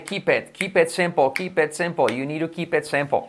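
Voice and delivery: IT in KEEP IT pronounced "et". Shown as a demonstration. Teacher drilling the vowel for students, IT as "et". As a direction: repeat KEEP IT with IT as "et". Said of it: "La I como una E".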